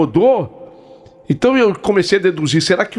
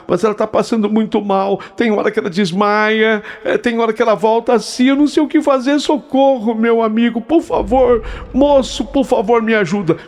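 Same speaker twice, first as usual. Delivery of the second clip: almost crying; 6 semitones higher than usual. Retold or imitated. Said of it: "ela quase chorando falou".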